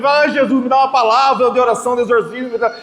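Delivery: rising to a high, half-shouted plea; hammed-up panic while being cried on; comic desperate plea to Jesus; frantic mock prayer. Retelling desperate prayer during hug.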